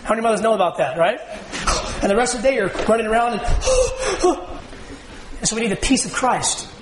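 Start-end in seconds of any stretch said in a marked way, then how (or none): 3.5-4.9 mock frantic gasp. Frantic mother running around.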